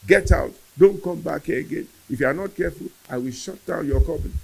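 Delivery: scolding outburst, hurling insults; shouting mother. Retold or imitated. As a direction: imitate a mother furiously throwing someone out. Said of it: "I heard my mother shouting and screaming".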